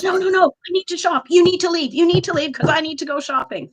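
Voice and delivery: impatient entitled woman demanding you move; mocking a condescending shopper. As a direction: lightly play the rich old bag who insists you leave. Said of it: "She goes".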